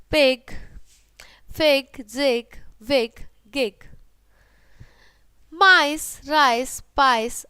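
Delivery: loud, punchy classroom word drill; loud phonics drill. Shown as a demonstration. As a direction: call out each word loudly for the class. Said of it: "Now read with me". (तेज़ आवाज़ में शब्द बोलना)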